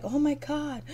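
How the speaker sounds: high, whiny fake distress; mocking a cast member pretending to be upset; mock crying. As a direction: overplay her fake horror. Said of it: "She starts to cry and make up like".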